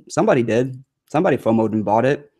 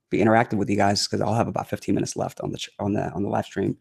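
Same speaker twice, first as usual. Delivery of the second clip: tired, hoarse strained voice; talking through a worn-out hoarse voice; 6 dB quieter than usual. Real, not acted. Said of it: "my voice is killing me".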